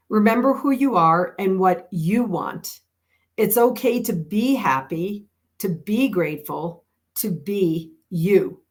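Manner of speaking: earnest quote reading; reading a quote aloud. Shown as a demonstration. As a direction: read each line like a card to a friend. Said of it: "I emphasize the words that you capitalized".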